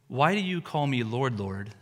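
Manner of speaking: rushed quote, words run together; said too fast. Shown as a demonstration. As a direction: hurry through the line. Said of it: "I said that too fast".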